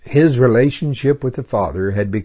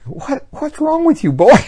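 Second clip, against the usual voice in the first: grandfather's voice; 7 dB louder than usual. Retold or imitated. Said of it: "what grandfather would have thought".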